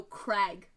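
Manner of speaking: Crag with a short a; corrected pronunciation. Shown as a demonstration. Game master correcting a player's name for the city, corrective. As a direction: say Crag, not Craig. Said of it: "Did you put Craig in there".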